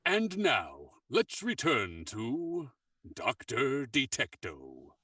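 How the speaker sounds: spelled-out slow announcement. Acted. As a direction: say it again, slowly and clearly. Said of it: "Could you say that again?".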